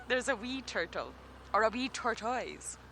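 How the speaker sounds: a second, cleaner Scottish take; better Scottish accent. Shown as a demonstration. For the viewers who asked, a clearer Scottish accent. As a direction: give them the Scottish wee turtle properly. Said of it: "I bet you that's better".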